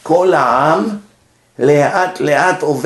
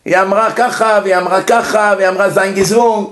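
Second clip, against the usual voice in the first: eager witness voice; 4 semitones higher than usual. Retold or imitated. Woman answering rabbinate questioning.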